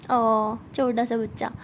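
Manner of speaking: put-on slow cooing baby talk, teasing. Sana mocking Mahi as a little kid, slow cooing. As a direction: stretch it out like talking to a toddler.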